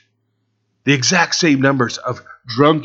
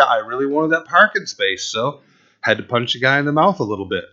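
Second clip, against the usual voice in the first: mock excuse; 3 dB quieter than usual. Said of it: "I can't tell a police officer".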